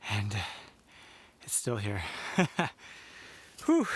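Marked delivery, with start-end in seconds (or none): 2.3-3.9 laughing exhale of relief; relieved laugh. Real, not acted. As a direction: let out a real relieved laugh. Relief camp still standing.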